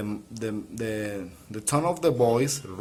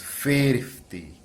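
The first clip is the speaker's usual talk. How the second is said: "Fifty" falling after "Fif"; "Fifty" stressed first; stress at the start. Shown as a demonstration. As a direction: drop the voice through "Fifty". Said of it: "is decreases".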